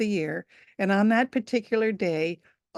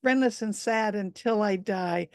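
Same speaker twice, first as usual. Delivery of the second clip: dragon voice; 2 semitones higher, 4 dB louder than usual. Acted. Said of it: "she heard through the steam".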